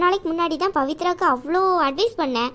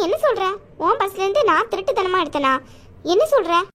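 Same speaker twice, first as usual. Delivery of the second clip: indignant outburst; 3 semitones higher than usual. Acted. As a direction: fire back, shocked and hurt. Sister indignant at accusation.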